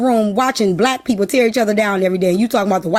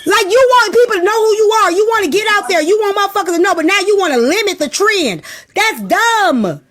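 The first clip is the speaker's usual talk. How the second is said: higher and raised, insistent; fired-up rant; 7 semitones higher than usual. Real, not acted. Ranting to listeners about owning trends, raised insistent voice. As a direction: keep it high and driving.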